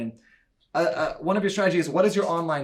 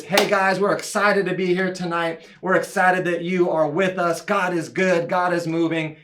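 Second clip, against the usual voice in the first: a bit louder, cheerful host greeting; upbeat welcome; 3 dB louder than usual. Shown as a demonstration. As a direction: sound glad they came. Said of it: "Our voice is".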